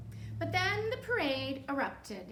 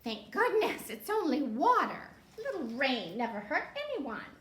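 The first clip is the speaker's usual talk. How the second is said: relieved witch; 3 semitones higher, 4 dB louder than usual. Acted. Witch glad it is only water. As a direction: sound relieved.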